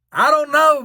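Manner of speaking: flustered stammer at the gelato counter; flustered blurt. Retold or imitated. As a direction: blurt it out panicked, then lose the word. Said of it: "I totally derailed a sentence".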